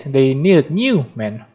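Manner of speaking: "new" lifted above "men"; emphasize "new", letting "men" fall away; stress on NEW. Shown as a demonstration. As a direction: lean on the word "new". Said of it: "New is emphatic".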